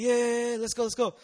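eager yes. Retold or imitated. Asked to drive the sick man, eager loud agreement. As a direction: jump at it eagerly.

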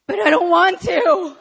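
loud, high mock whine; childish protest. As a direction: protest like a balky kid, hammed-up. Acted childish protest against praying.

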